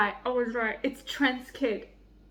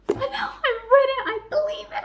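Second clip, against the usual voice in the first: laughing; 13 semitones higher than usual. Real, not acted. Giddy disbelief after reading.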